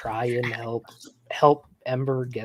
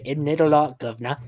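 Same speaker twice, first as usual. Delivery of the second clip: put-on Cockney accent. Explaining Cockney to a friend, hammed-up Cockney accent. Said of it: "they got the bad teeth and they say".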